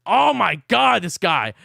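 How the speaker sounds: loud, worked-up outburst; real pissed-off rant; amped-up anger. Real, not acted. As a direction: blow up in exasperation, swelling on the oath. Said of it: "I'm amped".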